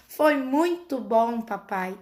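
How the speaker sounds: slow, lilting copy of a cartoon line; echoing Peppa's tone. Mother imitates her son echoing Peppa's intonation, slow. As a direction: say it just like Peppa, slow and singsong. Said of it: "na mesma entonação".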